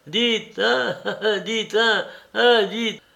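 put-on high, pestering old man repeating hein; nagging litany. A narrator's reading. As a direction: needle him over and over in a high voice. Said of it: "le lardait tout vif d'une obsession de litanie".

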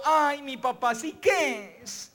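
lightly voiced gloomy boy, rattling off disasters; a hint of a whiny kid spiralling into worst cases; pessimist boy. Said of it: "cuando vio la bicicleta dijo".

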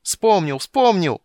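high, loud repeated cries; whooping excited shout; wild shouting. A narrator's reading. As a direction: yell it like a savage, jubilant. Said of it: "крича по-дикарски".

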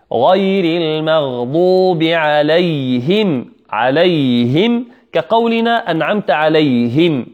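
غير المغضوب عليهم recited slowly; measured teaching recitation; slow recitation demo. Shown as a demonstration. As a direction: model the phrase for students slowly. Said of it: "واللفظ في نظيره كمثله".

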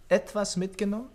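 amused laugh. Acted. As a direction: chuckle and echo his words back. Watson amused by understatement. (lachend ungläubig nachfragen)

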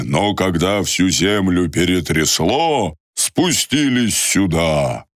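slow, lightly voiced old guide; a hint of a wise old man.

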